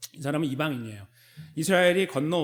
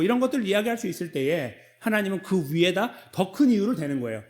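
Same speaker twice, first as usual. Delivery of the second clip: normal talking voice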